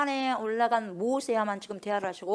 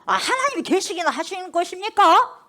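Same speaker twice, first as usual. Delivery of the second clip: defiant protest; 6 semitones higher, 4 dB louder than usual. Retold or imitated. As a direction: hurl the complaint at God like a rebel. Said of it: "막 그러는 거예요. 막 대들어요".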